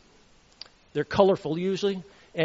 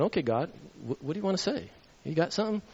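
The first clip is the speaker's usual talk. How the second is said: inner prayer; 7 dB quieter, faster than usual. Retold or imitated. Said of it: "I'm thinking".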